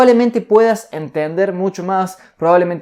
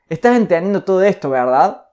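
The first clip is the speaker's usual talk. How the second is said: quick statement with a rising "verdad?" at the end; tag question tune. Shown as a demonstration. Teacher demonstrating a statement turned into a question, rising tag. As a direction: rush it, then lift "verdad?" upward. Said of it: "el tono de afirmación con una pregunta".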